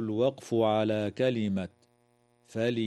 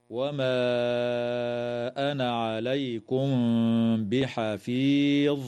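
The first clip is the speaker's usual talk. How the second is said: Quranic recitation. Shown as a demonstration. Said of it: "قوله تعالى".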